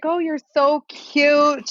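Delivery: put-on high, slow New York accent lady; a sugary New York lady's coo; mock New York lady. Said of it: "I'm making her sound New York".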